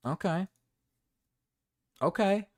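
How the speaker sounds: normal talking voice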